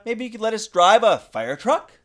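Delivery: put-on high, hopeful little girl voice; high child's plea; eager little girl. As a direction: ask it like a kid begging for a treat. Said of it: "said Sheila".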